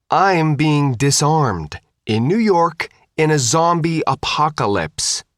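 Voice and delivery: high, emphatic outrage, opening slowly; indignant protest. A narrator's reading. Girl protests giving up weapons at checkpoint, indignant. Faith protests being disarmed.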